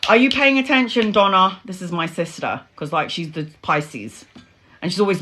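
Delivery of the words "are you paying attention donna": lightly voiced teacher, a little higher. Teacher to a daydreaming pupil, lightly imitated. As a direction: call a daydreamer to attention. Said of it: "Your teacher would always be like".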